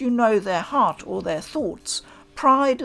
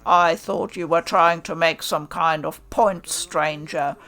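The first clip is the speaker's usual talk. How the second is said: contemptuous swordsman; 2 semitones lower than usual. Acted. Hichikata scorns the stranger.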